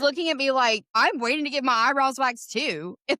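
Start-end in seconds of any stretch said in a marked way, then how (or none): 0.9-3.0 imitated Southern American accent, a bit higher. Customer looking at her while waiting too, imitated Southern American accent. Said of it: "Southern American accent".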